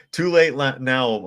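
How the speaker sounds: high, loud, laughing through the words. Real, not acted. Laughing to chat that it's too late now. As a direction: repeat it while cracking up. Repeats punchline while laughing.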